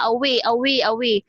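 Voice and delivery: "away" with a short, closed "way"; mispronunciation. Shown as a demonstration. Teacher imitates students saying the word, short mispronunciation. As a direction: repeat "away" briefly, without stretching "way". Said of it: "You just pronounce it".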